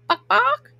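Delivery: high mocking clucks; chicken clucks. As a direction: cluck like a chicken to taunt him. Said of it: "clucked the gang".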